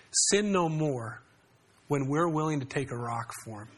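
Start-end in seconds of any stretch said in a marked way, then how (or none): 0.1-1.2 "Sin no more," said very slowly, each word weighed; preacher offering "Sin no more," slowly and without harshness; slow, measured quote. Shown as a demonstration. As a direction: draw out "Sin no more," gently and deliberately. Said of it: "more apt to hear our statements like".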